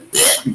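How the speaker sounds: short disgusted gag; gagging noise. Acted. Player shows Yuna gagging at a blown kiss, disgusted gag. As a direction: make a brief retching noise. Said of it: "gagging noise".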